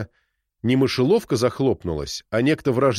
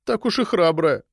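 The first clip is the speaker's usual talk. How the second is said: embarrassed mumble; 7 semitones higher than usual. A narrator's reading. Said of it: "смущённо пробормотала она".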